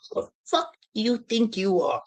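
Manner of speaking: high-pitched retold challenge; mock confrontation. Short money guy steps closer to him, high-pitched mock challenge.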